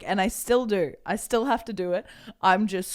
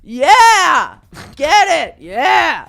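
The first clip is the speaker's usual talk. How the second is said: voice cracking; 9 semitones higher, 14 dB louder, much slower than usual. Real, not acted. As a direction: voice breaking up high and loud. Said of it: "sound like I'm a ten-year-old pubescent boy".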